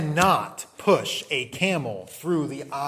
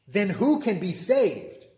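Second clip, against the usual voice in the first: astonished; 5 semitones higher, slower than usual. Acted. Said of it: "They were exceedingly astonished and said".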